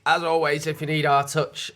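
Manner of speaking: garbled reading off the phone; fumbled read. Real, not acted. Misreading the sign-off from a phone. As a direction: stumble over the words. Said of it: "As, I'm sorry?".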